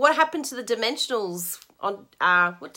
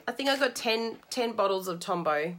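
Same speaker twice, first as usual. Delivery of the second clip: normal talking voice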